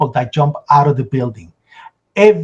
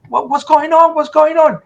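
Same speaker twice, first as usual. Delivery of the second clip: alarmed question; 10 semitones higher than usual. Retold or imitated. Startled by the shouting.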